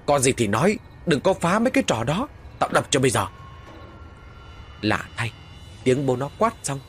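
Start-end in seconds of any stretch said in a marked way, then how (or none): 0.1-3.3 a raised, scolding yell at the unseen spirit; angry shout. Acted. Father yells at the restless spirit, angry shout. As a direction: snap a threat at the ghost, voice up. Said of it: "mà quát lên".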